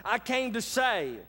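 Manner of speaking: lightly acted chiding; Jesus correcting disciples. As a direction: voice an exasperated master setting followers straight. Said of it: "Jesus is like".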